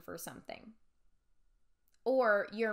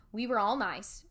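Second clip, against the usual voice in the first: monotone; 4 dB louder than usual. Shown as a demonstration. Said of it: "It kind of sounds like this".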